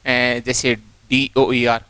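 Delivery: डीओईआर stretched out very slowly; sounding out a word. Shown as a demonstration. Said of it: "तो आप देखो". (शब्द का धीमा उच्चारण)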